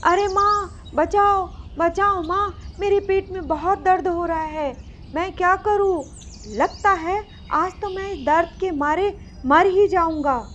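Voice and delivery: put-on high, pleading cries for help from a boy in pain; mild acted yell of a child in pain; shouting for help. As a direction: call out to mother, hurting and scared. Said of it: "बहुत ज़ोर-ज़ोर से चिल्लाना शुरू कर देता है".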